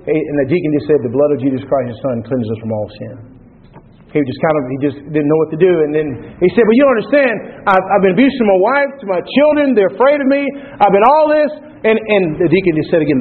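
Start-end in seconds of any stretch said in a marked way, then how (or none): 1.0-3.4 calm deacon. Retold or imitated. Deacon answers the desperate drunk. 6.6-11.5 a pleading man, pitched much higher and straining; begging, voice climbing as he confesses; desperate drunk. Retold or imitated. The drunk pleads with the deacon for hope, strained and pitched high.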